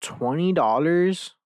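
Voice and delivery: high, loud, slow "Twenty dollars?" in disbelief; shocked disbelief. Real, not acted. Outraged at a twenty dollar resale price, drawn out in disbelief. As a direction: stretch it out like you can't believe the price.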